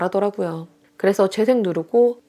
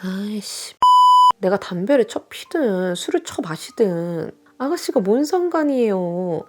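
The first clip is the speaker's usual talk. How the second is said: the sister-in-law coldly brushing off the accusation, slow; contemptuous retort; slower than usual. Retold or imitated. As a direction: drag the words out with scorn. Sister-in-law snapping back.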